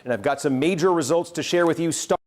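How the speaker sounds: formal, measured news read; serious newscaster voice. Acted. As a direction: read it like a network anchor. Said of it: "I'm gonna put on the serious newscaster voice here".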